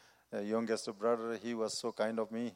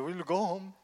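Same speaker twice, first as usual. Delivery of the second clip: little daughter; 8 semitones higher than usual. Retold or imitated. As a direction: pitch up lightly into a little girl. Daughter quoted again.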